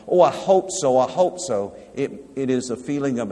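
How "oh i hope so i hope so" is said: mock wishful hoping. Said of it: "hope in the Bible doesn't mean".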